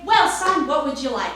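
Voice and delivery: high, loud eager shop voice; eager saleswoman. Retold or imitated. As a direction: bend down to the kid, all bright. Saleswoman asks the boy.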